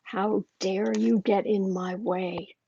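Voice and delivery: slow, cold mock fury; imitating angry McConnell. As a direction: drag out each word like a seething boss. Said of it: "He is so angry".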